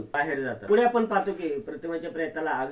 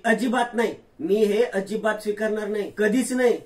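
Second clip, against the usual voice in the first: higher, rising to a louder cry on the last words; defiant refusal; 5 semitones higher, 4 dB louder than usual. Acted. Daughter refusing to accept her mother's death, building defiant cry. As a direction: refuse it outright, building to a shout.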